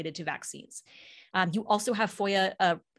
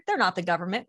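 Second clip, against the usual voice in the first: sneering "They're not the government" with a rise on the end, a bit louder; mock-condescending "They're not the government"; mocking quote; 4 dB louder, faster than usual. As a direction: parody the smug line, lifting up on "government". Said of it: "that's how they always say it".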